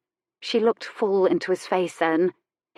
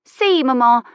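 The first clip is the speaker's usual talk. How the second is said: put-on bright, higher child's voice, louder; a happy little boy showing off; cheerful child; 7 semitones higher, 7 dB louder than usual. A narrator's reading. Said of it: "Paulie said cheerfully".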